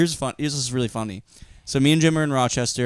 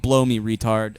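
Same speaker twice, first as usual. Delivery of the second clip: deadpan comeback; 4 semitones lower than usual. Retold or imitated.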